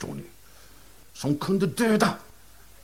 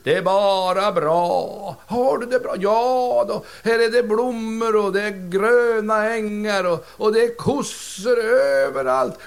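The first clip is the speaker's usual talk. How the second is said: slow contented spirit; 5 semitones higher, slower than usual. Acted. Spirit describes heaven.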